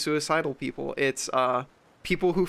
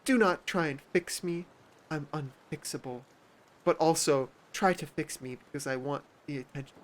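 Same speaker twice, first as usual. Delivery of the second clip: mock self-pity; 5 dB quieter than usual. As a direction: whine like a drama queen. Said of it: "they're like".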